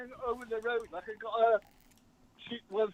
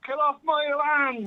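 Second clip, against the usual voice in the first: shouting; 4 semitones higher, 5 dB louder than usual. Pretend. Caller repeats shouted greeting.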